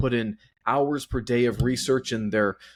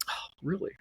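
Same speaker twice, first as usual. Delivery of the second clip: soft, higher-pitched, play-bashful reply; mock flattered; 7 semitones higher, 8 dB quieter than usual. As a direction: act coyly flattered by the compliment. Mock bashful reply to gushing praise.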